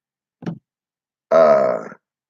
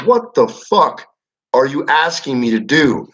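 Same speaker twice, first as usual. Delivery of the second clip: exasperated disbelief; 6 semitones higher than usual. Retold or imitated. Exasperated retold argument.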